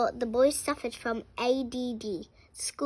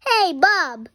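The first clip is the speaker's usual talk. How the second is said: louder, higher call; 5 semitones higher, 10 dB louder than usual. Acted. Character calling out to Bob, louder. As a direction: call across to him.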